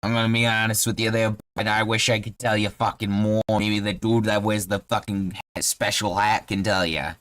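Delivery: frank Bostonian character voice; Boston halfling. Acted. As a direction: confide plainly in a Boston accent. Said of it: "Yeah, he's from Boston".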